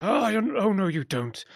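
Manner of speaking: put-on high, stubborn old mage; determined old wizard. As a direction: refuse to let her escape. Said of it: "Kellic's like".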